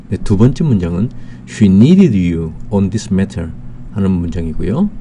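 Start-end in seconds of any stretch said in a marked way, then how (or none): 1.5-3.5 very slow, word by word English sentence; slow dictation reading. Shown as a demonstration. Teacher reading the second example sentence to students, very slow. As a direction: spell it out slowly for learners.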